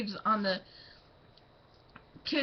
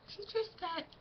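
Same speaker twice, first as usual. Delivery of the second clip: muttered aside; 7 semitones higher, 12 dB quieter than usual. Acted. Self-mocking aside about herself.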